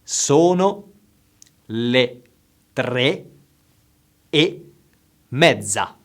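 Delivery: slow and carefully enunciated; slow, over enunciating. Shown as a demonstration. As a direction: say each word slowly and clearly. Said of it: "I will say it slowly".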